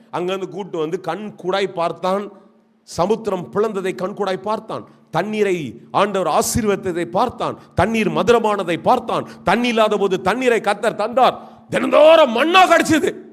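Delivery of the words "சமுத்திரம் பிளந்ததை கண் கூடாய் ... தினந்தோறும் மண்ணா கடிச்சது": rhythmic sermon list building to a loud high peak; preaching. Acted. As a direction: build each point until the last rings out.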